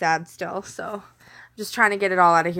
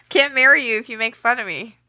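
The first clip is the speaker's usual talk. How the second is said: laughing; 2 semitones higher, 3 dB louder than usual. Real, not acted.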